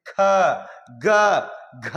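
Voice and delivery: ख, ग, घ each alone with a push of breath; forceful aspirated consonants. Shown as a demonstration. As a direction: push out ख, ग, घ separately, pausing between. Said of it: "इस पर ज्यादा बल लगावे पड़ रहा".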